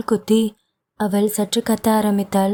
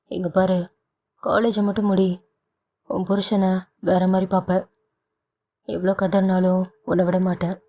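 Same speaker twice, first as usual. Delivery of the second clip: playful threat. Acted. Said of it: "என்ன நீங்க இப்படி பயமுறுத்துறீங்க?".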